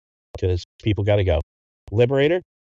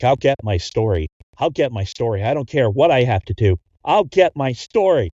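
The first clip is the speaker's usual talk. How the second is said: building obsession; 3 semitones higher, 4 dB louder than usual. Acted.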